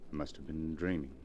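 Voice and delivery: low, soft, far-away murmur; husband waking from a trance, low and soft; dazed and distant. Acted. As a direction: answer as if still half in a dream. Dazed husband just woken.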